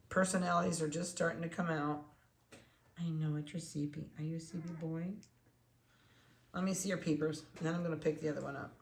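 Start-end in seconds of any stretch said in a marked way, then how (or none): none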